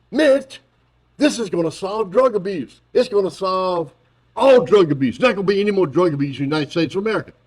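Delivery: high, eager mock Biden; mocking Biden begging Mitch; Biden pitching to Mitch. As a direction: oversell the bill. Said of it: "my equally stupid impersonation".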